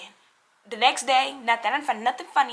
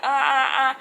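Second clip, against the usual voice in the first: wordless "uh" noises mimicking painful talk; mock answering with a sore mouth; imitated hurt-mouth grunts; 3 dB louder than usual. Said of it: "Why you talking like that?".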